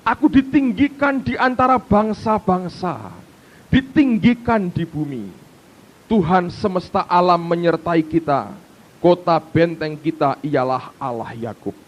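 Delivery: slow, measured reading; unhurried public reading; scripture reading. Acted. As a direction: read like a solemn psalm.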